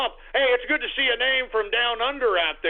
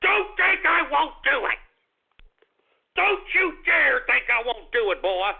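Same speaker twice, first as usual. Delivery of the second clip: menacing threat; 4 semitones higher than usual. Acted. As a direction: dare them to test him. Host threatens ending show.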